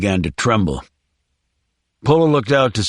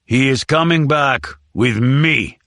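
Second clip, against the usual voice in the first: snarled; 2 semitones higher than usual. Acted. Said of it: "Mecco snarled".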